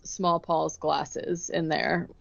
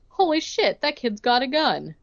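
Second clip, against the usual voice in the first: a shocked driver, pitched up on holy shit; startled driver; 5 semitones higher than usual. Retold or imitated. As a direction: play the driver caught off guard by a kid with a rocket. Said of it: "and the driver goes".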